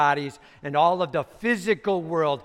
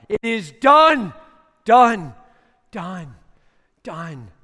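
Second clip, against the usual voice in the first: fading echo; 5 semitones higher, 11 dB louder, slower than usual. Acted. Voice thundering through the universe, echo fading. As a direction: let each done die away like an echo. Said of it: "screamed out, like in a cave".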